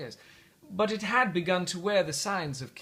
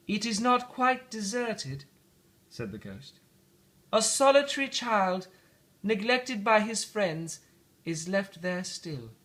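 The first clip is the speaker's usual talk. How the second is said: high spirit voice; 6 semitones higher than usual. Acted. Ghost shows the lonely child.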